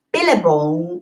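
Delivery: second-try amateur Aussie accent; unconvincing Australian twang; attempted Australian accent. Shown as a demonstration. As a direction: try Billabong as an Australian would, not quite managing it. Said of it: "I can't do it".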